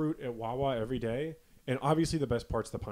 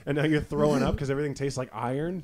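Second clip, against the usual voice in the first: louder, laughing jab at a former tough guy; laughing mock taunt; 4 semitones higher, 7 dB louder than usual. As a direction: tease him through laughter, half-hearted mockery. Mocking the chain-smoker friend.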